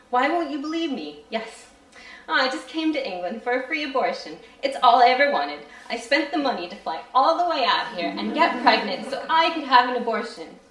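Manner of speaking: desperate pleading. Acted. Narrator begs the doctor.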